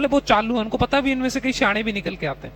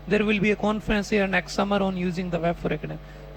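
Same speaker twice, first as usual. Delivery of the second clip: slow, careful reading of the test sentence; slow model reading; much slower than usual. Shown as a demonstration. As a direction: read it out slowly as the model line. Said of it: "अच्छा line याद है ना सबको".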